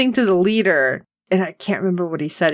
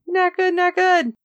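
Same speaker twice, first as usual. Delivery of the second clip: high alarmed; 12 semitones higher than usual. Real, not acted. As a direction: panicky high repeat. Reacting to danger.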